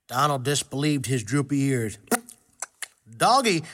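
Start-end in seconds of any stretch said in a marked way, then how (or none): 3.2-3.6 mock outraged dragon yell; scream. Dragon screams at Dora for calling him a doggy, mock outraged. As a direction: shout it, insulted at being called a doggy. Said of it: "he screamed".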